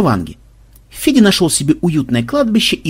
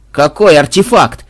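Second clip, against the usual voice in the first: frightened; 2 semitones higher, 6 dB louder than usual. Acted. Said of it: "испуганно сжался мародёр".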